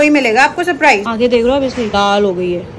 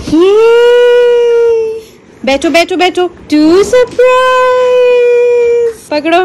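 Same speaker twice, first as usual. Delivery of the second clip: excited gift reveal; 12 semitones higher, 5 dB louder, much slower than usual. Real, not acted. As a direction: squeal the surprise to the nephew. Presenting gift to child.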